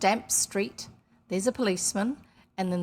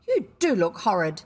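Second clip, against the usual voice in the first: sudden blurt; 7 dB louder than usual. A narrator's reading. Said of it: "said Jane suddenly".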